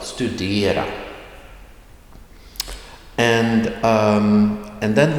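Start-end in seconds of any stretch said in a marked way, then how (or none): 0.0-0.9 "studera" with the tone going up on "de"; rising tone accent. Shown as a demonstration. Teacher shows that it goes up, rising tone on "studera". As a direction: lift the pitch on the middle of "studera". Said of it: "It goes up".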